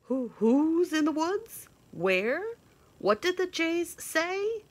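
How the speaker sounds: high, loud hooting owl voice; curious owl. Acted. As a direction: hoot out anxious questions like an owl. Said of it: "asked the owl of many questions".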